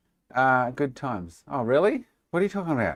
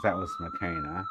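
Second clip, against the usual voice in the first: squeaky voice; 7 dB quieter than usual. Acted. Squeaky voice for the name.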